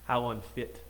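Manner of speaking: put-on light Scottish accent for a Burns recital. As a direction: recite Burns in a mild Scots burr. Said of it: "Excuse my Scottish accent tonight".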